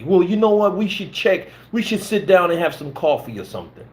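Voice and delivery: mocking impression of a pushy coordinator; mock smug coordinator. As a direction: mimic him as a smug gatekeeper. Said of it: "I'm like".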